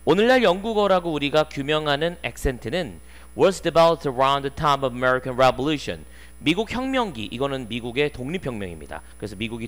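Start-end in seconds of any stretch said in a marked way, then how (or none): 3.4-6.0 very slow, word by word textbook reading; slow read-aloud. Shown as a demonstration. Teacher reading the sentence slowly to students. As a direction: spell each English word out slowly for the class.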